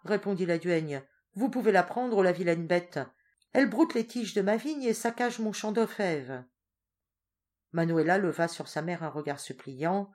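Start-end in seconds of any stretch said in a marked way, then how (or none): 1.3-6.4 higher, louder grumble; grumbling duenna. Acted. Old duenna complaining about the goat, cross.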